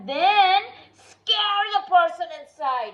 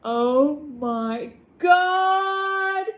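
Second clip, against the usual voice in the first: drawn-out dismay; 4 dB louder, much slower than usual. Acted. Dramatic drawn-out exclamation.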